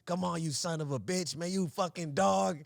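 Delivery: imitating a coach chewing out a player; coach berating. Coach berates a tired player, mock tirade. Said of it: "that's our coach would talk like".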